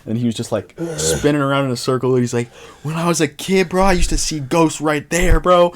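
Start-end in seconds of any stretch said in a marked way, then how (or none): 2.8-5.7 put-on high, loud New Orleans accent; lightly put-on New Orleans accent, pitched up; New Orleans local's accent. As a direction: imitate a New Orleans local telling his tale. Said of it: "I'm gonna do the accent".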